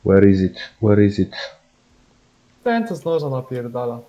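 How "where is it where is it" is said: frustrated shout. Real, not acted.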